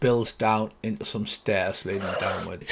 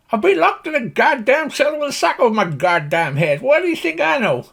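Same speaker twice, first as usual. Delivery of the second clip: very high farmer's rant; exasperated, high-pitched country holler; indignant Slim Pickens; 12 semitones higher, 4 dB louder than usual. Acted. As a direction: complain loudly in a high cowboy voice. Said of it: "If you imagine Slim Pickens".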